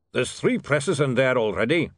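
lightly voiced dwarf printer, worried; a hint of a stubborn dwarf grumbling; gruff dwarf. A narrator's reading. Dwarf foreman telling William about the rival presses, lightly voiced.

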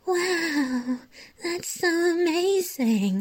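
high, slow, gushing fake awe; mock adoring girlfriend. Girlfriend humoring her boyfriend's band plans, high mock gushing. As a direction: gush over him like a bored girlfriend. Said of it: "her just being like".

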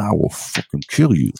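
stare him down and threaten; menacing threat. Shown as a demonstration. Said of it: "you gotta do this".

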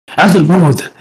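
lightly imitated weird chef; a hint of an odd Italian restaurant chef. Storyteller mimics the chef checking on diners, weird, lightly imitated. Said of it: "He said it in such a weird way".

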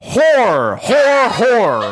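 "Whore" for horror, loud, high, one drawn-out syllable; Southern mispronounced horror. Retold or imitated. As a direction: belt out "Whore" with the second syllable of horror swallowed. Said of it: "This is how I said it".

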